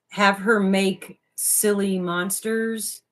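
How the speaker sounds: usual speaking voice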